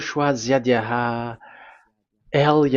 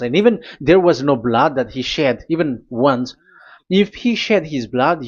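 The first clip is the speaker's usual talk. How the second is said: fiery preaching; 3 dB louder than usual. Acted. Preaching at full force.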